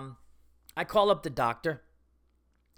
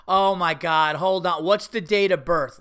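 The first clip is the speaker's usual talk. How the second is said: exasperated, louder mock complaint; upset receptionist; 6 dB louder, slower than usual. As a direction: imitate her losing patience. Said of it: "she's getting, like, upset".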